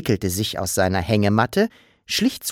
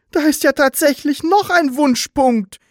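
high, louder astonished exclamation; surprised cry; 5 dB louder than usual. Acted. Papa discovers a hidden wish dot, amazed. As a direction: gasp out the discovery. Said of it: "rief überrascht".

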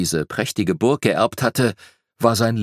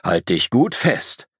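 slow bear voice; unhurried talking-bear voice; rumbling bear; slower than usual. A narrator's reading. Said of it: "brummte der Bär".

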